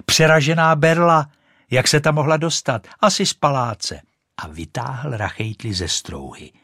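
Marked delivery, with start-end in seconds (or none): 0.0-4.0 put-on higher, louder excited boy; boy shouting. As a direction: call out the find. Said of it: "vykřikl jeden ten klouček". (vyšší, hlasitější chlapecký výkřik)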